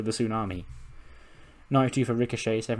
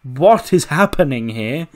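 baffled; 4 semitones higher, 9 dB louder, slower than usual. Acted. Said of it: "And Edge is like".

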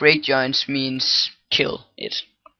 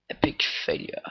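whispered; 7 dB quieter, faster than usual. Real, not acted. Repeats verdict in a whisper.

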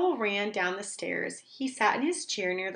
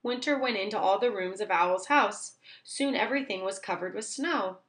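ordinary delivery

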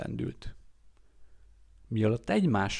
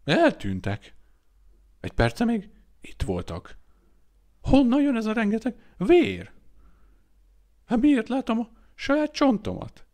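panicked high shrieking, louder and higher; screaming at the top of his lungs; 12 semitones higher, 7 dB louder than usual. A narrator's reading. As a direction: scream in horror at his own bones. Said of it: "üvöltette torka szakadtából".

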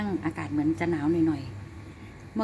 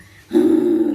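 sharp breathy hiss like the dog; imitating dog's growl; 8 semitones lower, 12 dB louder than usual. Owner copies her dog's hissing growl at her. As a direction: mimic the dog's hissy growl. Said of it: "หลบฝนจะร้องแบบ".

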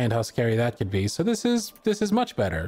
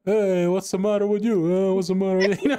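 put-on drunk uncle voice; 4 semitones higher, faster than usual. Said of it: "my drunk uncle voice".

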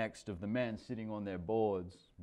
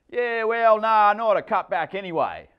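explaining; 10 semitones higher, 11 dB louder than usual. A narrator's reading. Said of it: "Michael explains".

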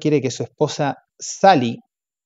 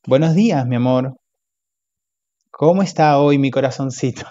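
a touch louder, syrupy morning greeting; butter her up; lightly voiced coaxing husband; sweet-talking husband; 4 dB louder than usual. Robert sweet-talks his wife.

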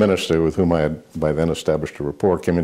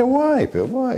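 mock exasperated why; slower than usual. Retorting to nagging reporter.

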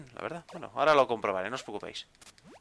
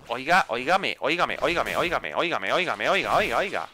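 singsong, insistent repeated calling; mock-insistent attention-seeking chant; playful pestering. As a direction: call out over and over in rolling waves. Pestering a game character repeatedly.

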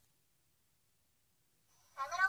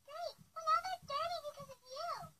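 higher, softer mimicry of a scolding; quiet, high-pitched mocking repeat; mocking echo; 4 semitones higher, 5 dB quieter than usual. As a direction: parrot the scolding back in a higher voice. Child echoes the scolding back.

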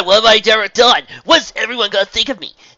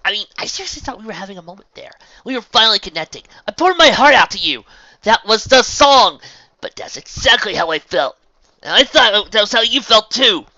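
high, loud shouted argument; both yelling over each other; heated screaming match; 13 semitones higher, 19 dB louder than usual. A narrator's reading. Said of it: "Then why are we yelling?".

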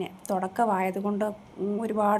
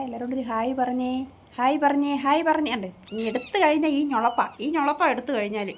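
higher, louder sing-song coaxing of a pet; 4 semitones higher, 4 dB louder than usual. Acted. Owner coaxes her pet to greet viewers, high coaxing voice. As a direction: urge the kitten to say hi, pitched up.

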